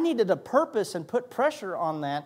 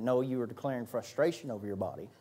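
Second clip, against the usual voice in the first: God's gentle correction; 7 semitones lower, 9 dB quieter than usual. Retold or imitated. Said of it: "And he's like".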